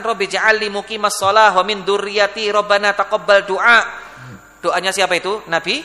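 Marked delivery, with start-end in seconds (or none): 0.0-3.8 loud, sustained Arabic recital; prayer recitation. Acted. Preacher quotes Ibrahim's prayer for his children, loudly recited. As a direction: recite the verse out loud in one flow.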